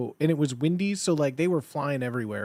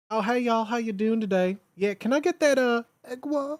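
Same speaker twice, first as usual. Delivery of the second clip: higher-pitched, put-on Southern ordering voice; sweet Southern accent; 5 semitones higher than usual. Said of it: "in your sweet southern accent".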